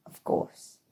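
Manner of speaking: ciche, bezdźwięczne "of course" szeptem; whispered. Acted. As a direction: szepnij "course" jak zły sekret. Whispered sinister aside.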